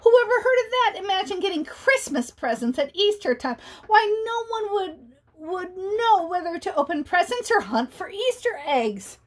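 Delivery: lightly voiced outraged bunny; indignant bunny. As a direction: scoff at the idea.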